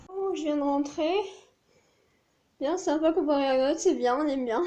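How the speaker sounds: breathless after a long walk; puffing between words; out of breath. Real, not acted. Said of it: "J'ai plus de souffle".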